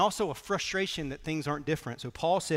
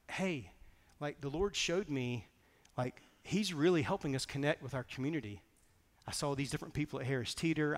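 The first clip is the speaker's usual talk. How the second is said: calm grateful; 5 dB quieter than usual. Retold or imitated. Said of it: "and I'm like".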